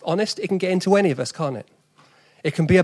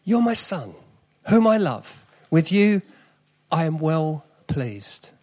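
South East London accent, slow on "well pleased"; God speaking like a South East Londoner; 4 dB louder, slower than usual. Shown as a demonstration. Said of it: "God is a South East Londoner".

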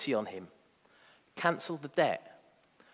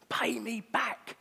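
higher, very slow threat; menacing demand; 8 semitones higher, 4 dB quieter, much slower than usual. Acted. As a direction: squeeze the words out as a threat. Servant choking his debtor.

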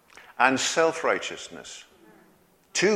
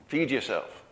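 quiet repeat of "Feed yourself", softer; soft echo; 7 dB quieter than usual. Acted. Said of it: "grow up and feed yourself".

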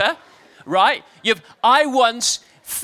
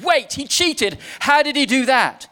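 higher indignant outburst; angry protest; 5 semitones higher than usual. Acted. Satan protesting to God, indignant higher outburst. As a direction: cry foul at the cheat. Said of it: "Angrily, Satan protested".

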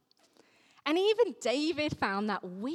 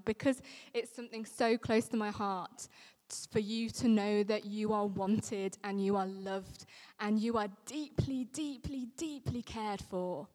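getting emotional. Real, not acted. Vicar telling the congregation they are loved, moved and softening. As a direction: let real emotion thin the voice until it drops to a whisper. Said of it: "you can probably hear in my voice I'm getting a bit emotional".

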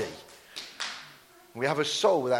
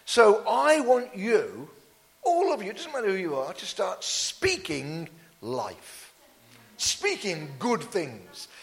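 preaching. Real, not acted. Preacher urges congregation to start speaking life, emphatic preaching. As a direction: preach it out, rising and falling in big waves.

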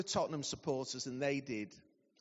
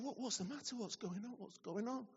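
soft, concerned asking; respectful; 4 semitones higher, 9 dB quieter than usual. Retold or imitated. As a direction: gently ask a crying patient what's wrong. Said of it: "So respectfully".

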